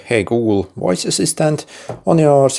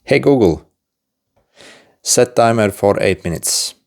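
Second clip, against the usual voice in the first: raised voice calling the phone; talking to voice assistant; 3 semitones higher than usual. Shown as a demonstration. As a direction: call out clearly to wake it. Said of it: "simply say".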